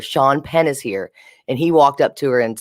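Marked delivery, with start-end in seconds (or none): 0.0-1.1 "Sean Penn is here" slowed and spelled out; repeated for clarity. Retold or imitated. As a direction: say "Sean Penn is here" slowly for someone who missed it. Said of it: "I couldn't really hear".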